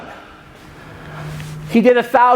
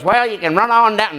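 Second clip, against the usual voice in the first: put-on Southern Illinois accent. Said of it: "There's from the Southern Illinois".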